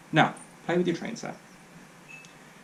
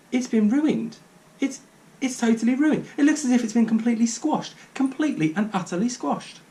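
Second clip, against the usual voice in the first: high, loud despair; distraught; 9 semitones higher, 3 dB louder than usual. A narrator's reading. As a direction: wail over the ruined car. Distraught father.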